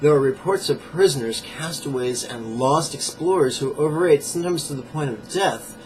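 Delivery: measured book-passage reading; emphatic nonfiction read-aloud. Acted.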